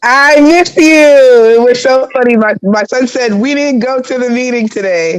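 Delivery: slightly hoarse, scratchy voice; a little rasp in the throat; raspy voice. Real, not acted. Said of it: "I have a little raspy voice".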